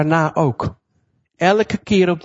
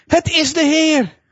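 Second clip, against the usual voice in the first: much higher, slow awed exclamation; a lightly voiced John, amazed; joyful recognition; 11 semitones higher, slower than usual. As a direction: announce the Lord with wonder. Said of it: "zei tegen Petrus".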